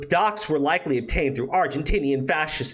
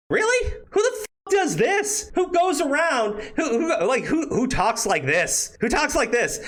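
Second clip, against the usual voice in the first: incredulous outrage; 10 semitones higher than usual. Real, not acted. Outraged at a creepy post.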